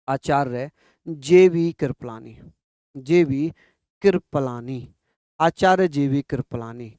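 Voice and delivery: slow, name spaced word by word; slow dictation. Shown as a demonstration. Teacher dictating the name to students, slow. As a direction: spell it out slowly for notes. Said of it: "क्या नाम था उनका?".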